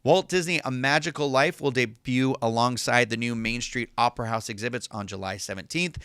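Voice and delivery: measured announcement-reading voice; even, scripted podcast news delivery. Acted. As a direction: read it out like a park press release. Reads an announcement aloud.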